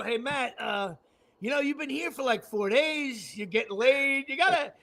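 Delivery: softly, hesitantly broach it; tentative approach. Retold or imitated. Housemate gingerly approaching Matt about chipping in, tentative.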